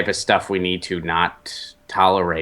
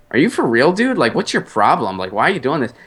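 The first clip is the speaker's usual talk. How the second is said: higher-pitched, incredulous challenge, retold; retold confrontation; 5 semitones higher, faster than usual. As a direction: replay calling someone out in disbelief. Retelling his challenge to rude diner.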